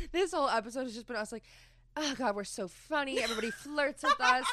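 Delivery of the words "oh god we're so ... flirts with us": mock self-hyping. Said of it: "us just hyping each other up".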